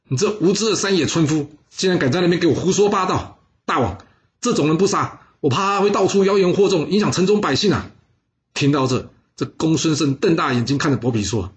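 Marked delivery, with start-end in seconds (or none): 0.1-7.9 raised, indignant rebuke of a liar; loud scolding. Acted. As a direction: scold him in front of the king. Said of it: "一旁伯嚭大声呵斥道". (大声呵斥)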